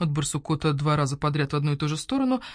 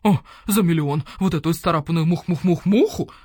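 mocking scoff; 6 dB louder than usual. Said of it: "Уг хрипло захохотал".

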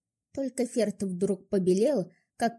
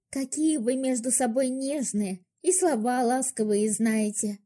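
snapping back; 3 semitones higher than usual. Acted. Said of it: "огрызнулась в ответ".

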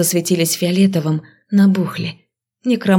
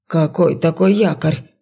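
nervous, alarmed question; a spooked old man asks; openly worried. A narrator's reading. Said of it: "откровенно заволновался Леший". (взволнованно, с тревогой)

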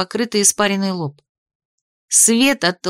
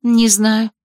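shocked. Acted. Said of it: "шокированно ответила я".

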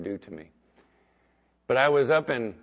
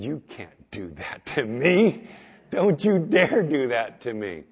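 Kirk's mock protest; 5 dB louder, slower than usual. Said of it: "He said".

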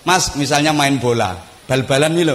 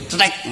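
short spoken click; imitated switch click; 3 semitones higher, 4 dB quieter than usual. Imitating radio power switch click. (tiruan bunyi saklar)

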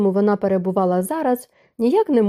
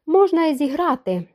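slow reply; 7 semitones higher than usual. A narrator's reading. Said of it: "повільно відповів він".

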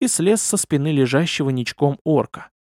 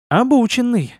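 purring; 7 semitones higher than usual. A narrator's reading. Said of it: "промурлыкала демоница".

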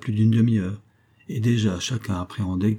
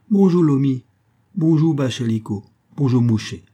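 cheerful greetings; 5 semitones higher, 5 dB louder than usual. Acted. Greeting sons by name.

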